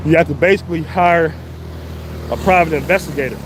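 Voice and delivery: huffing between phrases; out of breath. Real, not acted. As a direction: talk while winded on a hill. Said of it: "I'm all huffing and puffing".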